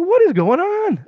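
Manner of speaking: high, loud, drawn-out disbelief; bewildered protest. Retold or imitated. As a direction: demand an explanation, slow and high. Bewildered while being frisked.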